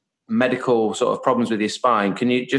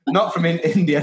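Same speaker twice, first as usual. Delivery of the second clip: put-on Indian accent; 4 semitones higher than usual. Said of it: "I don't know why I did an Indian accent".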